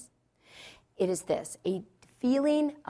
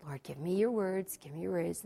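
praying softly under the rant; soft, pleading aside to God; retold quiet prayer; silent prayer; 5 dB quieter than usual. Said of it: "all I'm doing is praying".

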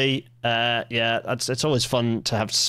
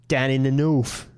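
casual mock southern English accent. Joking to the chat about where trains are, southern English accent. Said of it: "did a southern accent".

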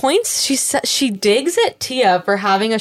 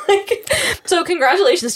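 mock congratulations; 9 semitones higher than usual. Real, not acted. Teasing congratulations to Tia.

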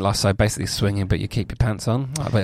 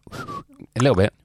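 higher, slower put-on echo; high slow mock echo; 5 semitones higher, slower than usual. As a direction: stretch it out in a silly high voice. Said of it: "That wasn't very good".

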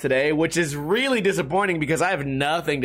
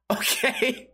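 laughing squeak. Real, not acted. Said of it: "laughing high squeak".

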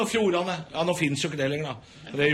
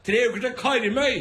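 mock boast; 8 semitones higher, 3 dB louder than usual. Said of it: "Hvor skal dere i sommer, da?".

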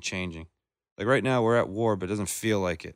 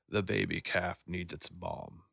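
slow, softer nature-documentary narrator, lightly done; a half-hearted stab at a hushed wildlife narrator; terrible David Attenborough; 2 semitones lower, 5 dB quieter, slower than usual. Retold or imitated. Mocking a nature documentary to a friend, slow soft narrator voice. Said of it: "I did a terrible impression of him".

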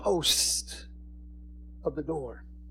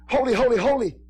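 shouted praise; 5 semitones higher, 4 dB louder than usual. Retold or imitated. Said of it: "when the shouting of".

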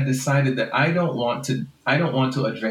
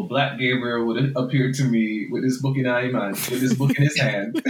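laughing; 2 semitones higher than usual. Real, not acted. Laughing at own fantasy.

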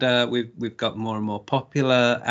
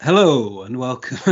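a hint of a cast mate's put-on voice; lightly voiced Anthony Murray greeting; 4 dB louder than usual. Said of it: "I started doing it in the Anthony Murray voice".

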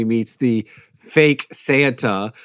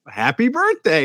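quoting Buddy; 10 semitones higher than usual. Retold or imitated. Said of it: "he's like".

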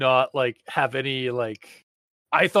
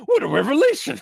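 high, hammed-up exclamation; mock amazement; 10 semitones higher, 4 dB louder, faster than usual. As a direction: proclaim it like a grand discovery. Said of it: "it was".

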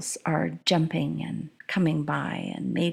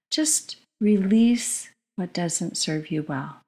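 guided meditation. Acted. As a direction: guide them into calm breathing. Leads a breathing meditation.

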